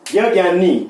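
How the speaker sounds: ज्ञ ज्ञानी said the everyday way as gya, gyani; common gya pronunciation. Shown as a demonstration. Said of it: "आमतौर पर हम इसको क्या बोलते हैं".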